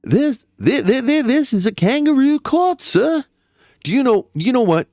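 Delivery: high, stuttering protest; stammering outrage. Acted. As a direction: sputter it out in mock outrage.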